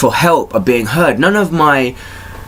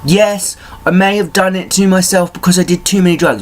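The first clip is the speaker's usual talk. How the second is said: pleading own voice; 6 semitones higher than usual. Retold or imitated. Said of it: "even though I'm going".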